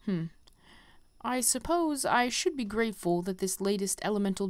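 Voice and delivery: lightly voiced stately teacher, measured and grave; a hint of a solemn elder; wise mentor. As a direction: read it like a gentle old master bidding farewell. Reads the conjurer mentor's lines.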